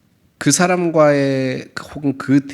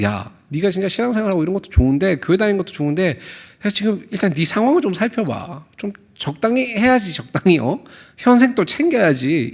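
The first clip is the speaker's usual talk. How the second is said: condescending advice; 5 semitones higher than usual. Retold or imitated. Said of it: "이런 지금 뉘앙스로 얘기를 하고".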